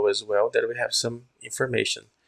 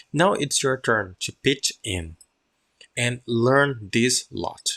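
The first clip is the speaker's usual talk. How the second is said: slow, careful read-aloud. Shown as a demonstration. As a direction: read it out clearly for the class. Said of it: "now listen my pronunciation".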